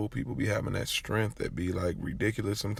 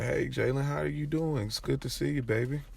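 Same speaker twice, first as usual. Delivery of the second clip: higher-pitched welcome of a visitor; friendly greeting; 6 semitones higher than usual. Retold or imitated. Grandparents welcome their grandson's friend, friendly greeting.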